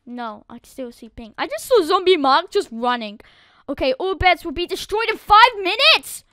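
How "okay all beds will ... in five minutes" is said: louder, raised call-out; announcing. Real, not acted. Gamer telling viewers the beds will be destroyed, announcing. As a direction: sound the alarm.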